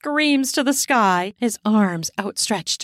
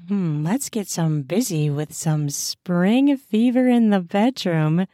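seductive line; 3 semitones lower than usual. Acted. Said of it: "you can say".

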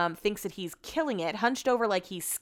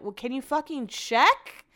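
irritated snap; 5 semitones higher, slower than usual. Retold or imitated. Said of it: "I was like".

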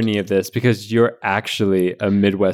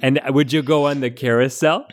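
Midwestern mom giving folksy advice; Midwestern mom accent; 3 semitones higher than usual. Acted. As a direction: answer like an understanding Midwestern mom. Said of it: "answer as a Midwestern mom".

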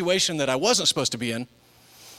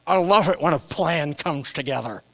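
a lightly voiced, satisfied team leader; George Peppard. God as the A-Team leader, light satisfied impression. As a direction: savour the plan like an action hero. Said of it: "God going like George Peppard".

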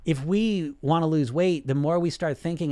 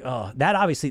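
ordinary delivery

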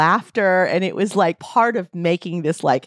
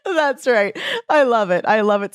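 laughing; 4 semitones higher than usual. Real, not acted. Laughing at the banter.

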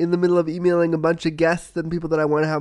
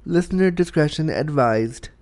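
announcer voice; 3 dB louder than usual. Acted. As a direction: read it like an official notice. Content warning read.

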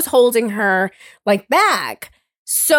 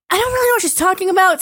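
confused inner voice; 6 semitones higher, faster than usual. Retold or imitated. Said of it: "So at first I was like".

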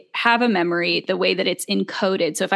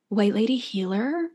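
white lady healer voice. Pretend. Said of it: "your white healer lady voice".

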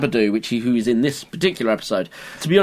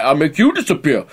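Luigi voice. Retold or imitated. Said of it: "so he's like".

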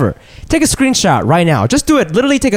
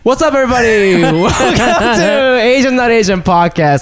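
hammy host voice; 8 semitones higher than usual. Acted. Hammy show intro.

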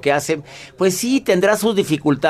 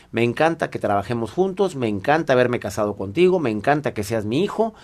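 calm, sincere; 3 semitones lower than usual. Acted. Calm request after the quarrel.

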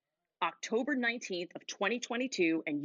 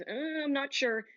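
higher, hesitant "Uh, I'm not sure."; unsure; 6 semitones higher than usual. Shown as a demonstration. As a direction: sound doubtful and hesitant. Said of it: "The first one says".

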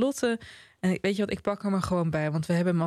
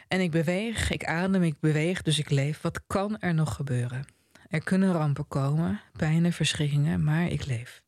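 measured reading of a novel's ending; literary reading; 2 semitones lower than usual. A narrator's reading. Reading the famous last passage to the panel, measured literary delivery. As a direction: read it out evenly, each short clause set apart.

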